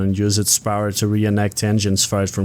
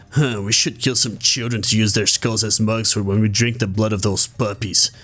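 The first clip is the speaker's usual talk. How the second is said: edgy villain guard. Retold or imitated. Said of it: "you hit me with".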